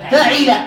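فعل as fa'il, i after the ayn; kasra on ayn. Shown as a demonstration. Teacher lists noun patterns for students, kasra on the ayn. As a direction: say فعل with a, then i: fa-'il. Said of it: "بفتح الفاء وكسر العين".

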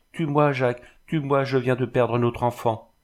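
légère supplique, un peu plus haute; supplication désespérée. Acted. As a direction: imploration contenue d'une mère en détresse. Jeanne à genoux, enfant perdu. (supplication désespérée contenue)

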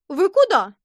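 high, loud startled question; a cloakroom lady caught off guard; surprised. A narrator's reading. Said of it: "удивилась гардеробщица тётя Луша". (удивлённо, громко и высоко)

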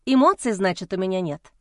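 mocking, biting his word back; wife sneering at husband, mocking; snide smirk. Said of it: "Ехидно усмехнулась я".

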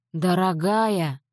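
slow, tender address to a wife. Acted. Grandfather stroking grandmother's hand, tender and slow. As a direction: soothe her gently, slowly. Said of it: "дед погладил бабушку по руке".

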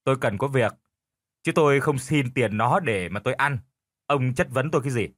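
curt wife reply. Acted. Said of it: "Bà Bảy nói trống không".

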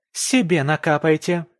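high, loud bark. Acted. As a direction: snap it back. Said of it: "рявкает она".

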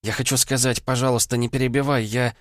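put-on the girl begging not to be interrupted; urgent girl's voice. A narrator's reading. Vanda's voice.

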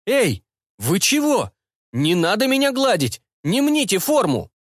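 high indignant cyborg voice; indignant mechanic. A narrator's reading. Cyborg protests as students pet him, high and indignant. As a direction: protest being petted, squeaky. Slesar protests being petted.

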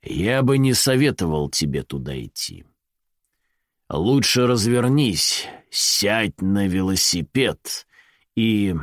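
grim voice from nowhere; ominous unseen stranger warning; dark low voice. Acted. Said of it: "мрачный и низкий".

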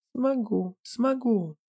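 high pleading woman's protest; insist, high and pleading. A narrator's reading. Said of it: "запротестовала".

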